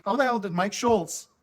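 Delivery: high-pitched retold protest; indignant disbelief. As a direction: object like a kid who finds it unfair. Retold childhood protest at unfairness.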